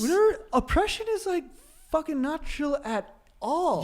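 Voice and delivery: surfer bro voice. Retold or imitated. Mocking California surfer talk.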